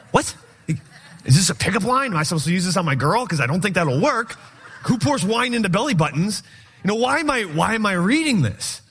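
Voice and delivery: mock bafflement. Mocking confused Bible reader.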